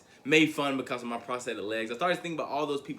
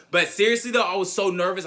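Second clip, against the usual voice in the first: emphatic; 6 semitones higher, 7 dB louder than usual. Real, not acted. Emphatic return after joke.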